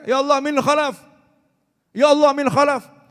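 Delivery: loud, high cry of ya Allah min khalaf. Retold or imitated. Preacher retells a cleric shouting to God, loud high cry. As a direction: call out to God at the top of your voice. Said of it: "Sampai teriak".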